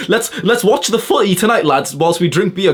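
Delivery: high, dopey mocking of a beer-drinking lad. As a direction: parody the lazy lads. Mocking lads' night plans.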